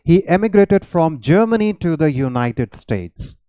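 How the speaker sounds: very slow, each word laid out clearly; slow example sentence. Shown as a demonstration. Teacher modelling the emigrated sentence for students, slow and careful. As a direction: read the model sentence slowly so it sinks in. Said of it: "इनकी pronunciation भी अलग है".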